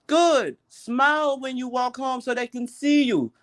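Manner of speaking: high-pitched imitation of coworker giving advice; high, drawn-out coworker voice; Indonesian coworker. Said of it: "she came to me, said".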